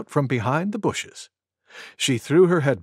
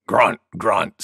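grunting wild boar; 7 semitones lower than usual. A narrator's reading. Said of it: "said Wild Boar".

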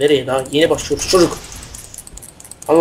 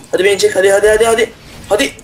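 taunting; 5 semitones higher, faster than usual. Real, not acted. Taunting opponent in a duel.

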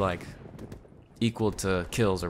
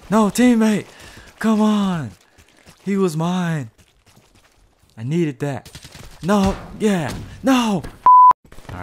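high, loud angry yells; yelling at a teammate who took the kill; frustrated shout; 9 semitones higher, 8 dB louder, much slower than usual. Real, not acted. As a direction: vent at the teammate. Teammate stole his kill.

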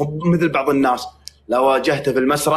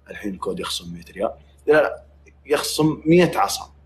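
ordinary delivery

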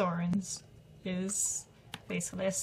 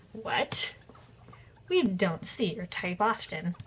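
sarcastic. Acted. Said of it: "Sarcastic guy".

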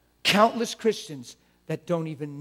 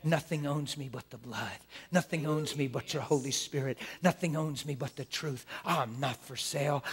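soft, intimate prayer to God; hushed thankful prayer; quiet prayer. Shown as a demonstration. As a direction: pray alone, tender and sure. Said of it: "getting alone and saying".

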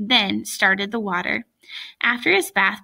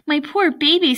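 high, fussing sympathy; gushing motherly pity; doting mother; 6 semitones higher, 4 dB louder than usual. A narrator's reading. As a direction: coo over a hurt child, pitched up. Mother comforts crying son.

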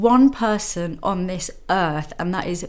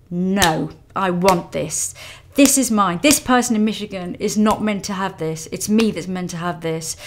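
louder, insistent no; fierce determination; 4 dB louder than usual. Retold or imitated. She recalls refusing to let the rival bidder win, firm and loud. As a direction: claim it as yours, loud and firm. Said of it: "I kind of saw red".

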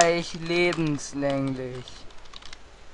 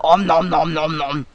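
nom nom chomping; 2 semitones lower than usual. Pretend. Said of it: "Ja, ich esse".

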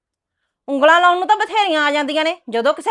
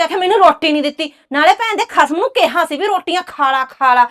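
rising anger, louder by the end; angry outburst; 4 dB louder than usual. Acted. Wife fuming to her neighbour about her husband. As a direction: lash out at the gossiping husband. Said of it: "ਗੁੱਸਾ ਨਾ ਕਰ".

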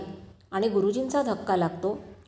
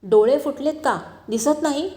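a rough bark that climbs higher and louder, retold; mock angry yell; 4 semitones higher, 4 dB louder than usual. Man bumped on the road yells at Goenka, mock angry shout. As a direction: act out the stranger's irritated shout, half-serious. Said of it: "त्याबरोबर तो ओरडला".

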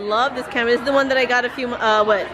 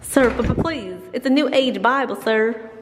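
put-on hesitant, pleading southern accent. Seller pitching a New Age Bible, southern accent. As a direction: press the sale politely in a southern accent. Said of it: "southern accents".

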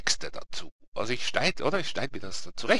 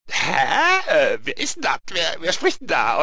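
higher, louder, baffled questioning; puzzled character voice pitched up; Lee; 5 semitones higher, 5 dB louder than usual. Acted. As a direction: stammer it out, confused. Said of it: "Und dann der Lee so".

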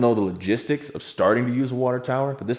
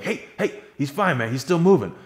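laughing reassurance; 9 semitones higher, 3 dB louder than usual. Retold or imitated. Calming panicked Ryan, half laughing.

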